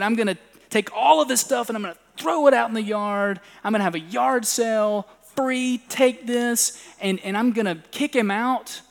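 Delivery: father plotting revenge, mild mock fury; imitating fuming father. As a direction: rant like a wronged dad plotting revenge. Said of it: "he was fuming".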